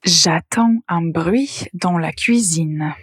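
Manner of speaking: slow, careful reading of the wrong sentence; slow dictation pace; slow example read. Shown as a demonstration. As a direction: read it slowly so they can catch the mistake. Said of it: "Écoutez bien la phrase".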